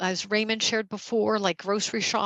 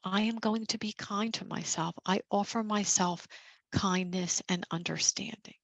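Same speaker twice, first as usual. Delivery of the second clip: softer, gentle inner reassurance; gentle self-compassion; 4 dB quieter than usual. Shown as a demonstration. Leader demonstrating kind self-talk to caregivers, softly reassuring. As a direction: speak to yourself softly, as to a friend. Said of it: "quick way just for you to offer yourself compassion".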